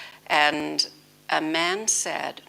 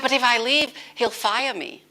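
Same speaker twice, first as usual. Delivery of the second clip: higher, louder anxious protest; worried objection; 7 semitones higher, 4 dB louder than usual. Retold or imitated. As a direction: voice the woman's alarmed pushback. Retold worried woman's objection.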